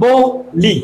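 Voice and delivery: বলি stretched slowly into ব and লি; slow ব–লি, syllable by syllable; drawn-out syllables. Shown as a demonstration. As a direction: sound out বলি slowly as two beats. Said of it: "কোনটা তুমি একটু feel করো".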